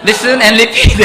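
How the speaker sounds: loud, playful exam-tape voice; mock listening-test announcer. Preacher joking about an English listening test, announcer voice. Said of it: "듣기 평가하듯이 한번".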